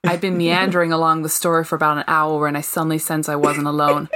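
reads aloud in a put-on American accent. Mock American accent. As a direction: Briton reading a novel in her best American accent. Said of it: "pull in my best American accent".

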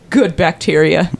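low, slow mock reverence for "Good bacteria"; mock solemn. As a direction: say "Good bacteria" low and slowly, like something sacred. Echoing mockingly.

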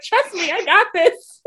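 high-pitched, amused imitation; mock self-assurance. Podcaster mimicking Heather's big moment, mock self-assurance. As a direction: squeal it as a mocking quote, about to laugh.

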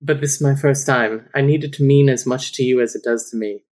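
lightly put-on English accent. He confesses it is his first time, English accent. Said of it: "You gotta do the accent".

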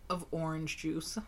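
hushed soft whisper. Real, not acted. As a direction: breathe it in a whisper. Whispering while tasting.

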